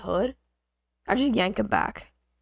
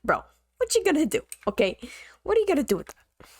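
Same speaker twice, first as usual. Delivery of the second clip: mocking challenge; 6 semitones higher, faster than usual. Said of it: "And I'm like".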